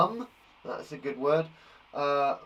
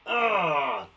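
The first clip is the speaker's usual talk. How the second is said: mock exasperated "ugh"; angry groan; 2 semitones higher, 4 dB louder than usual. Shown as a demonstration. Teacher acting out being mad, pretend angry groan.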